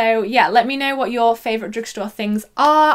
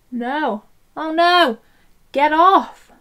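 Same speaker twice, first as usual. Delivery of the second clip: dismayed yelp; 5 semitones higher, 4 dB louder, much slower than usual. Real, not acted. Mascara smudged on cheek.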